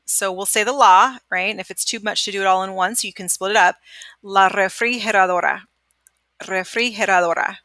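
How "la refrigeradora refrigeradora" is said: refrigeradora with the g as an h; Spanish pronunciation. Shown as a demonstration. Teacher modelling a hard word for students. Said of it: "This is a hard one".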